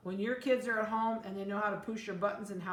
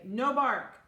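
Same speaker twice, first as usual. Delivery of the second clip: loud, firm "No bark"; stern command; 4 semitones higher, 8 dB louder than usual. Shown as a demonstration. Breeder showing the command a trained puppy obeys. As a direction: bark the order, expecting obedience. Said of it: "we can say".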